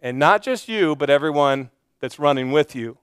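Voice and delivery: a calm, overly courteous death threat; lightly voiced polite menace; mock polite threat. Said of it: "he says this very politely".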